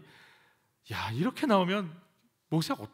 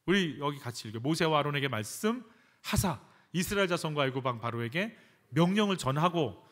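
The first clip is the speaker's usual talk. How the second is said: ordinary talk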